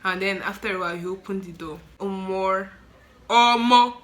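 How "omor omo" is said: shocked exclamation. Real, not acted. Reliving the opened mortuary door, shocked. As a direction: exclaim as if reeling at the sight.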